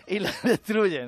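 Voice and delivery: hammed-up hopeful plea, slowing at the end; hopeful mock wish. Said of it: "yo sé que más de uno diría".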